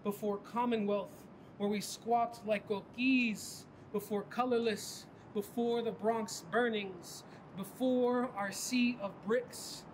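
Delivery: measured spoken-word delivery; poem recitation. Acted.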